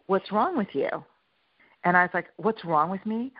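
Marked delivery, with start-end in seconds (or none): 0.1-0.9 mock-baffled husband, pitched higher with falling end; retold exasperated challenge. Husband to wife in a kitchen quarrel, exasperated challenge. 2.4-3.3 mock-offended comeback, lifting on "me"; retold indignant echo. Wife answering husband in a kitchen quarrel, indignant echo.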